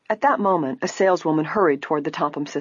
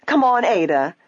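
higher, insistent prompt; urging; 5 semitones higher, 4 dB louder than usual. A narrator's reading. Isabel to her sister, wanting to leave, urging. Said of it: "Isabel urged".

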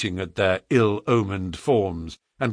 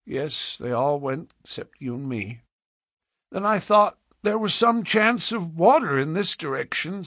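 subdued account of failed hopes; level with the child, resigned; resigned frontiersman; 5 semitones higher than usual. Acted. Man explains their plight.

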